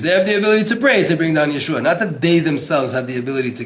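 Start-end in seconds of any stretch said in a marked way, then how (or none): 0.0-1.8 "pray" punched, higher, louder and quicker; emphatic stress. Shown as a demonstration. Teacher hammering the book's point to students, "pray" stressed. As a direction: drive home the word "pray". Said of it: "Everything I'm emphasizing".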